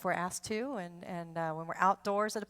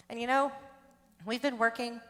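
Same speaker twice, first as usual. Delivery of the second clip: breathless, short gasps between words; winded after singing, pausing for air; out of breath; 2 semitones higher than usual. Real, not acted. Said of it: "I'm out of breath".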